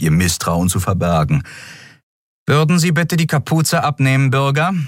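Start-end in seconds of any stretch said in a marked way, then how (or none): 2.5-4.7 high, polite but demanding official voice; stern request. Acted. The officer ordering Kero to remove his hood, high and stern. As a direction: order it under a polite surface.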